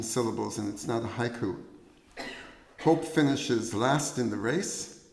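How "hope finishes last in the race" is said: poem recital. Acted. Poet to festival audience reciting seventeen syllables, poem recital. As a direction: deliver a short verse, slightly raised.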